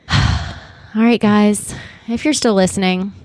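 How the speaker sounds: winded after a long read; breathless, catching air between words; out of breath. Real, not acted. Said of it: "I'm out of breath".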